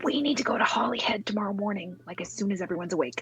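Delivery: soft, hushed half-whisper under the breath. Half-whispering in character so a sleeping baby won't wake: half-whispering. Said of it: "I'm gonna be whispering it".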